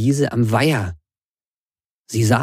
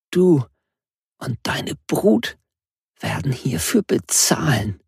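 rough with hatred; 4 semitones higher than usual. Acted. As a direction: threaten with raw hatred. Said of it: "ihre Stimme war rau vor Hass".

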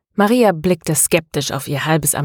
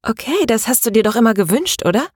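smiling; 5 semitones higher, faster than usual. Acted. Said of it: "fragte Ilka mit einem Lächeln".

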